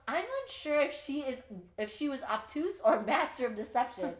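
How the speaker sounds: high, loud, laughing through it; Gideon's baffled musing. Retold or imitated. Gideon wondering aloud about Rue, laughing and high-pitched. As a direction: perform his bewilderment while cracking up. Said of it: "I love how he says".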